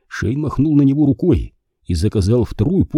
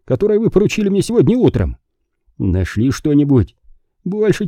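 higher, weary and anxious man; worn out and troubled, pitched up; tired, worried voice; 7 semitones higher than usual. Acted. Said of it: "Голос Пейнтера звучал утомлённо и обеспокоенно". (усталый, обеспокоенный голос)

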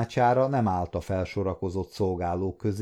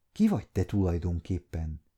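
trembling voice; 4 semitones lower, 4 dB quieter than usual. A narrator's reading. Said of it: "kérdezte remegő hangon".

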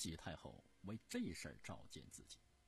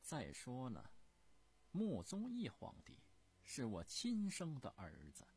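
high, loud imperious scolding; a furious empress dowager demanding answers; indignant empress dowager; 8 semitones higher, 5 dB louder than usual. Acted. Empress dowager scolding Prince Gong, high and loud in indignation.

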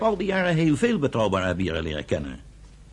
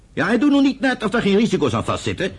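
louder, pushing back hard; heated retort; 4 semitones higher, 5 dB louder than usual. Acted. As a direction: raise it to a sharp challenge. Heated argument between brothers.

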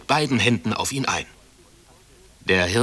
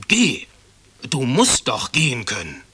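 loud, high, angry command; barking order; 4 semitones higher, 4 dB louder than usual. A narrator's reading. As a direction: bark the first word at the boy, then keep pressing. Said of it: "herrschte ihn an".

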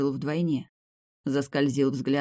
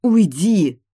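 high, much louder snarl; 5 semitones higher, 11 dB louder than usual. A narrator's reading. Demia snarling at the hero to get off. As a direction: shove him off with the word. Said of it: "зарычала Демия".

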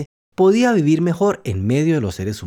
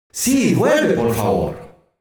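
chorus of animals; much slower than usual. Acted. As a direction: voice the animals begging together. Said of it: "gritaron en coro".

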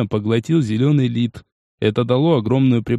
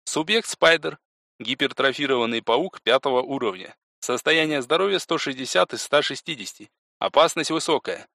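softer, processed interface voice; system readout; 6 dB quieter than usual. Acted. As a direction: read out the creature's stats impersonally, softly.

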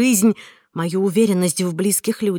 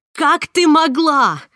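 slow, much higher and louder accusing cry; furious shout; 8 semitones higher, 6 dB louder, slower than usual. Acted. Heroine screams at Marta over the phone, furious shout. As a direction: hurl the question at her in fury. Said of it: "кричала я".

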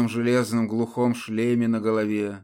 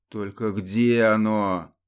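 процедить сквозь зубы; slower than usual. Acted. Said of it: "процедил Мирон".

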